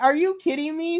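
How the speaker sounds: a tamer take on the same outrage; exasperated disbelief. Retold or imitated. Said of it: "I was just like".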